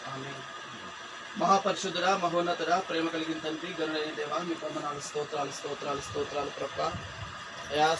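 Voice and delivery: low, measured praying voice; solemn intercessory prayer; earnest prayer. Real, not acted. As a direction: plead reverently with God. Prayer over the girl.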